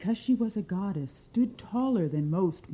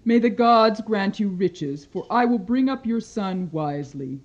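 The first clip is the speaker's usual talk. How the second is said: lightly voiced goddess; 5 dB louder than usual. Demeter voiced in story.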